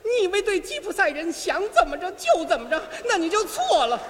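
fiery Gypsy girl scolding, lightly voiced; dubbing Yesenia. Dubbing Yesenia, she scolds Osvaldo in a fiery voice. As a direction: tell him off like a proud Gypsy girl. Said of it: "您先开口啊".

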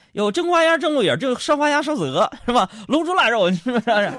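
rapid crosstalk menu patter, pitched high; reciting dish names. Pretend. Comedian rattles off a banquet menu, high and rapid. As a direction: rattle off the dishes like a xiangsheng routine. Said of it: "报菜名我不会呀".

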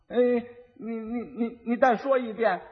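lightly voiced stammering fool; simpleton husband. Simpleton asking his wife to repeat the lesson, halting. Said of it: "傻子还真行".

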